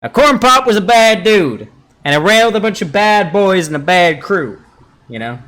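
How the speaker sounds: put-on old politician storytelling voice; folksy old-man anecdote voice; Joe Biden impression. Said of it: "Joe Biden back in the fifties".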